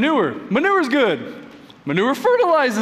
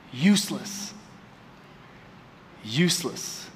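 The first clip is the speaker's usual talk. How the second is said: quiet; 6 semitones lower, 6 dB quieter than usual. Acted. Repeated for weight.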